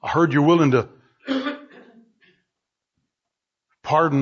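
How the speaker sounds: subdued sinner coming to God; humble prayer. Acted. Models a humble repentance prayer.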